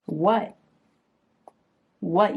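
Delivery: loud, playful repeated challenge; hammed-up what at a pet; mock challenge. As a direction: pretend to pick a fight with the cat. Challenging the staring cat.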